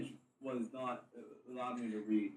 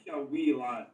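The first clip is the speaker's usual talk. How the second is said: louder, teasing mock-Irish accent; 6 dB louder, slower than usual. Shown as a demonstration. Player defends his impression to friends, Irish accent. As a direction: tease in a put-on Irish accent. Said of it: "That's Irish".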